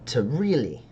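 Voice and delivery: halting sales pitch with long pauses; sly dealer's pitch. Acted. Dealer pricing rare stardust for a customer, lightly voiced sly pitch. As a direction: draw out the pitch before naming the price.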